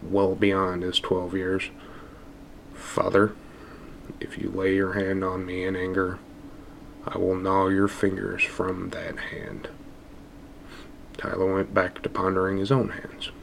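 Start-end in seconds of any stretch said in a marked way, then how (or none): 2.7-9.7 ragged voice. Acted. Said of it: "said in a ragged voice".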